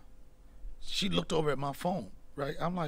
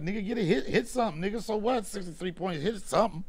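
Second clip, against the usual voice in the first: higher-pitched, punchy heckle; mock heckling; 4 semitones higher than usual. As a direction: heckle like an irritated fan. Acts out his heckling tweet.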